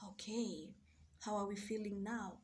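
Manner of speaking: hushed, gentle self-talk after a sigh; soft whispered check-in. Retold or imitated. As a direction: whisper to yourself to calm down. Calming herself with deep breaths.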